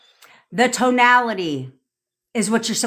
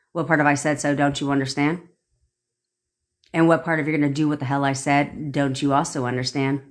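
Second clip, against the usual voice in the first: insistent repeats, sinking lower into firm finality; impatient command; 4 semitones lower than usual. Shown as a demonstration. Coach demonstrating orders to a photo, impatient and final. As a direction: press the order, then close it down low. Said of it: "you're gonna do that in your tonality".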